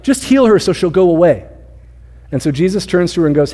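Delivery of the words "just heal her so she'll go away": higher, mildly annoyed plea; mock impatient disciples, pitched up; selfish discomfort. Disciples wanting the woman gone, higher and mildly impatient. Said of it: "their own kind of selfish, like, discomfort".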